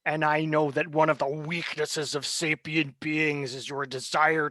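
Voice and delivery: smug villain. Acted. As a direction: lecture them on their weakness. GM voices the villain figure.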